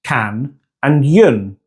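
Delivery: canyon broken slowly into can and yun; syllable by syllable. Shown as a demonstration. Teacher splitting an English word for learners, syllable by syllable. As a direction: pull canyon apart: can, then yun. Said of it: "two separate syllables".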